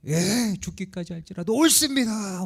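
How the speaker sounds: imitating a stubborn retort; defiant retort. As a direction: play an indignant talk-back, hammed up. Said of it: "그러면서 바락바락".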